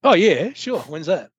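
high-pitched sarcastic enthusiasm; mock eagerness. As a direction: pretend you're keen to go. Joking reply to an invitation from a band.

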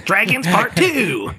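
high, slow laughing exclamation. Real, not acted. Echoing the dragon sequel plan through laughter. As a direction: crack up while echoing the title.

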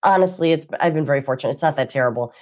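congested, blocked-nose voice; talking through a stuffy nose. Real, not acted. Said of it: "I apologize for my congested voice".

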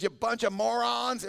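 a hammed-up blow-up at the crowd; mock angry Moses. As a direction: Moses losing his temper, lightly acted. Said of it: "he was angry".

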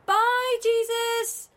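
high farewell call to the sky. Acted. Calling after Jesus rising away.

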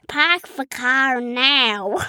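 Boston "Park the car now", r dropped; Boston accent. Shown as a demonstration. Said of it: "No, park".

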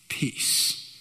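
hushed, breathless "Peace"; calm the storm with one whispered word; whispered command. Acted. Jesus calms the storm.

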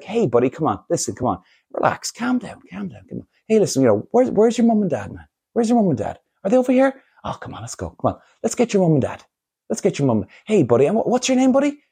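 light soothing voice, softening in places; kindly to a child. Acted. Adult calms five-year-old and looks for parents, kindly. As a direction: gently coax an upset little kid. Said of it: "show the kid a bit of love, right? And a bit of care".

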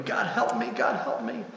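small, high, soft whimpering. A narrator's reading. Ghost gives up and prays, whimpering high and soft. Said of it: "he ended up whimpering".

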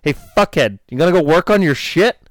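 high mock teasing call from a buddy; imitating Freddie. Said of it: "he taps me on the shoulder and goes".

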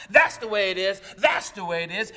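loud chant of the crowd's cry; crowd cries. Retold or imitated. Preacher voicing the crowd's cries, loud and chanted. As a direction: call it out like a crowd in the sanctuary. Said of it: "filled with cries".

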